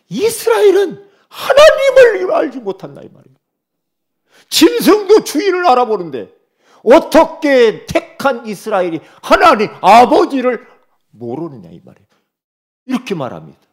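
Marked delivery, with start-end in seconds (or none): 0.1-3.0 impassioned cry. Acted. Preacher cries out Isaiah's lament. 4.5-11.7 impassioned rebuke. Acted. Preacher rebukes Israel from Isaiah.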